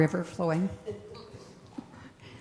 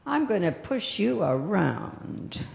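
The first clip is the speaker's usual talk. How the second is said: bully voice; 5 dB quieter, slower than usual. Acted. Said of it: "they're the bullies".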